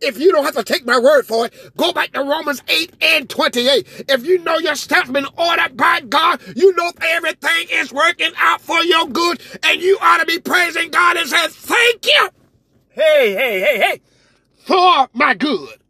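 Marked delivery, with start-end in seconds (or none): 4.1-15.8 rising, rhythmic preacher's call; preaching at full force. Real, not acted. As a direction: build the congregation up with each "the more". Preaching to a climax.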